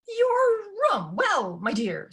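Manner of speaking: high, fluttering stepmother voice; a nervous stepmother, voiced high; flustered stepmother. A narrator's reading. Stepmother dodges Ella's question, high and flustered.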